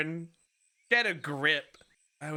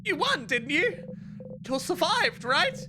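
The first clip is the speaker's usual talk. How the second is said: much higher, mocking questions; taunting voice; 14 semitones higher than usual. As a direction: needle him with each question.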